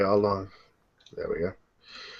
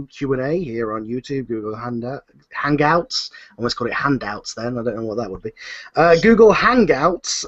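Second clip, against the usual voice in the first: proper show intro; 3 dB louder than usual. Acted. Host formally opening the live Q and A, announcer style. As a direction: kick off the Q and A like a presenter. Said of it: "I'll do an actual proper intro".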